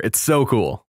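ordinary delivery

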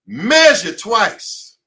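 drawn-out, deliberate, each word apart; very slow repeated motto. Acted. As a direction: spell the rule out slowly.

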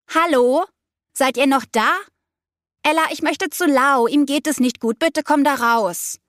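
high, urgent plea; pleading call through door. A narrator's reading. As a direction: beg them to come out.

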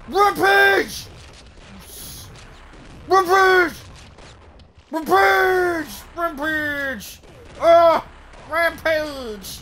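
high, booming announcer shouts; fighting game announcer. Pretend. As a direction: call the rampage like an arena announcer. Repeating kill streak callout.

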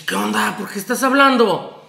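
mildly puzzled retold questioning; a touch of bewildered surprise; taken aback. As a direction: imitate someone thrown by an unexpected call. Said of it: "se sacó de onda".

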